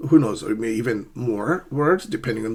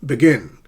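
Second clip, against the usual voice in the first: "Begin" with GIN punched; short first syllable, strong second in "Begin"; stress on second syllable; 5 dB louder than usual. Shown as a demonstration. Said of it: "we stress the second syllable".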